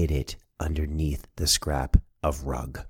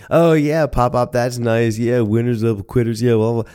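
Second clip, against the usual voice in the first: higher, slightly louder brush-off; dismissive kid; 4 semitones higher, 5 dB louder than usual. Retold or imitated. Grandson to grandfather about his motto, dismissive. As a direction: humor him with a singsong dismissal.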